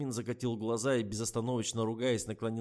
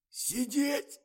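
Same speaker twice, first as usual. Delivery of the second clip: very high, loud barking order; barked command; 5 dB louder than usual. A narrator's reading. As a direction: bark the order. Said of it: "гаркнул Миша".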